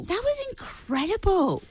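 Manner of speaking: high, slow and amazed; awed. Real, not acted. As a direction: marvel at it, drawn out. Stunned reaction to the rap.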